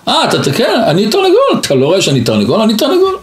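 high, rushed insistence that he is a rooster; the sage playing a rooster, squeaky and insistent; insistent rooster man.

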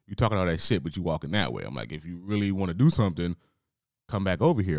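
mild confrontation. Retold or imitated. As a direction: call his bluff. Her confronting the customer.

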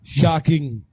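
low, dramatic announcer voice; clickbait video narrator. Acted. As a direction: ham up the doom like clickbait. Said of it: "Ladies and gentlemen ... shocking, terrible".

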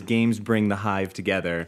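slow motto read. Real, not acted. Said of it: "our motto is".

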